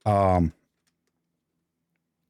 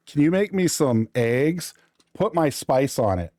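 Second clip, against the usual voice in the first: lightly voiced little girl asking for eggs; a hint of a small child's sweet request; imitating daughter; 4 semitones higher than usual. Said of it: "That's exactly how she says it too".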